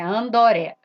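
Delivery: Andoré with the extra o; Japanese-style Andoré. Shown as a demonstration. Teacher repeats the Japanese André, lightly. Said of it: "Vai falar assim".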